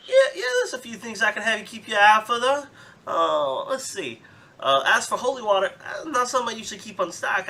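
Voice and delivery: lightly voiced, folksy merchant haggling; a friendly Southern trader making a deal; Southern shopkeeper.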